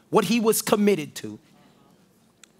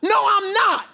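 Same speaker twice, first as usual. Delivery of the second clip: higher, irritated brush-off; Peter's denial; 11 semitones higher than usual. Acted. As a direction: snap it away, much higher. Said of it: "But Peter said".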